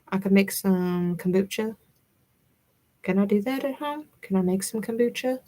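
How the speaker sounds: a hint of a southern accent slipping in; playful touch of a southern accent. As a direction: let a light southern accent creep into the words. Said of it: "My southern accent is busting out".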